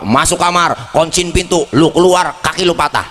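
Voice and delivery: a hint of a stern father barking orders; mildly mock a strict dad's threat. Preacher imitating his strict father, mild stern bark. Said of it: "Apa kata bapak?".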